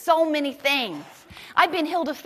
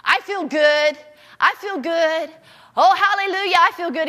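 put-on joyful boy; 5 semitones higher, 6 dB louder than usual. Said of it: "he's going".

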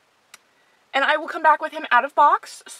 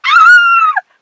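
high shrill squeal of joy; excited squeal; 14 dB louder than usual. Real, not acted. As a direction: squeal with delight. Unboxing excited doll collector.

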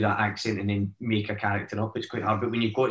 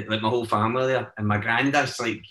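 ordinary talk

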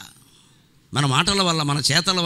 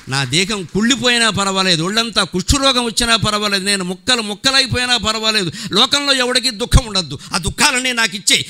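fervent preaching; 3 semitones higher, 4 dB louder than usual. Acted. Fervent sermon climax.

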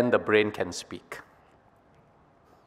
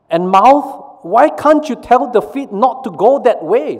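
much higher, loud demanding voice; exasperated brain; 11 semitones higher, 5 dB louder than usual. Acted. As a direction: brain pressing the mouth, pitched way up. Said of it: "says the brain to the mouth".

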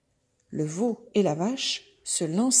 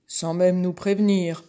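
loud, affronted bull voice; indignant bull; 6 dB louder than usual. Acted. Bull adding his complaint to the horse, loud indignant voice. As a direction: boom it out in outrage.

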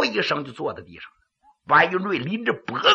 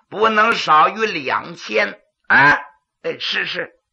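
pingshu character dialogue; lively voiced officials; storyteller voicing characters. Magistrate and clerk voiced in pingshu.

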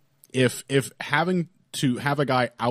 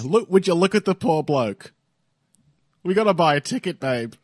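hammed-up Australian bloke, pitched higher; mock Aussie voice for a laugh; Australian accent done for a joke; 7 semitones higher than usual. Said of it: "start doing my wonderful accents".

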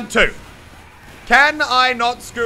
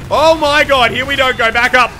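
panicked; 6 semitones higher, 9 dB louder than usual. Real, not acted. Sudden panic in a fight.

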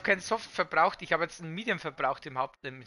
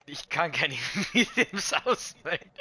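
trying not to laugh; slower than usual. Real, not acted. Laughs mid-sentence over bug.

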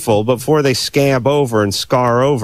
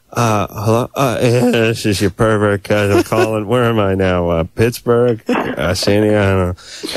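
a lightly hammed-up drunk caller; mock pervert cousin; 2 semitones lower than usual. The man mocks the drunk cousin calling the girl, lightly hammed-up confused creep. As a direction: play a confused creep who can't say where he is. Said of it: "And they're like".

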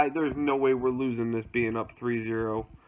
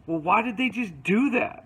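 imitating Colleen; 8 semitones higher, 3 dB louder than usual. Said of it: "Colleen does that constantly".

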